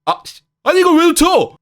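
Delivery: loud, high outraged shout; frustrated yell. Acted. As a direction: blast it at the one who missed. Acted striker misses the chance. (놓친 동료에게 높고 크게 버럭)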